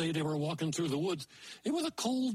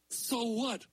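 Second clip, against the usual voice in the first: higher, bratty retort; sassy girl; 6 semitones higher than usual. Acted. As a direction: toss it off rudely. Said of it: "said So What".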